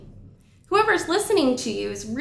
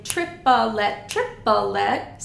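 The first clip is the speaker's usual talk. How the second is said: triplet syllable count; much slower than usual. Shown as a demonstration. Teacher showing how we count triplets, in even syllables. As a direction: say "triplet" in three even syllables, trip-uh-let. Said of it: "we typically count triplets either in".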